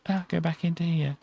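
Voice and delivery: hammed-up chilly bather voice; pretend swimmer. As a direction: play a swimmer yelping at cold water. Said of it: "come out and go".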